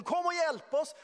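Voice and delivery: high, loud shout; calling for help. Retold or imitated. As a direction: holler to the other boat for help. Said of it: "de ropar till den andra båten".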